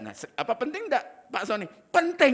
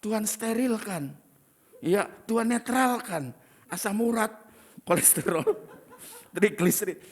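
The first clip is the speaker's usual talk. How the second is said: mock prayer.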